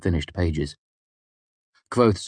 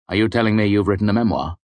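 eager hunger; 3 semitones higher, 4 dB louder, faster than usual. Acted. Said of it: "a strange note in the scribe's voice, something almost like hunger".

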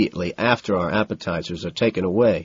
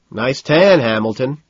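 mocking mimicry; 3 semitones higher, 4 dB louder, slower than usual. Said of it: "Price mimics".

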